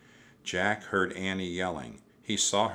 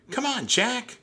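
high, loud urging yell; shouting; 5 dB louder than usual. A narrator's reading. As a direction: shout to hurry him up. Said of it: "Annie shouted".

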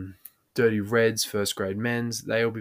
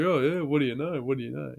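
higher catchphrase, easing off on the repeat; imitated drunk mate; 3 semitones higher than usual. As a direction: lightly mimic a mate's drunken catchphrase. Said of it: "every time he had a drunk idea".

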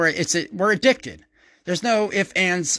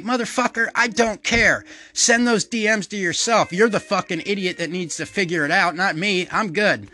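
raised, higher, fed-up brush-off; mock angry retort; 4 semitones higher than usual. Comic telling off a stranger on social media, mock fury. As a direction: snap back at the conspiracy messenger. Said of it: "and you're like".

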